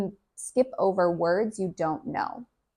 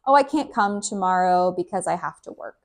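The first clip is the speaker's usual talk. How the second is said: quick casual example; faster than usual. Shown as a demonstration. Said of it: "listening for all these contractions".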